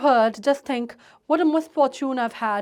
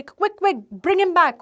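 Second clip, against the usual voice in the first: hysterical; 3 semitones higher, much slower than usual. Acted. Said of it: "hysterics में आके वो बोलती है".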